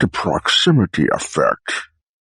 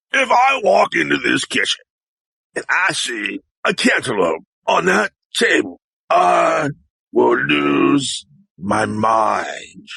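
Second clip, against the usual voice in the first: exasperated threat; 5 semitones higher, slower than usual. Acted. Acted threat, first take.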